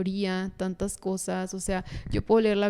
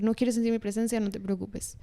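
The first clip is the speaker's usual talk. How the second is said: respectful gentle God; 3 dB quieter than usual. Retold or imitated. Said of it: "Dios fue un Dios respetuoso".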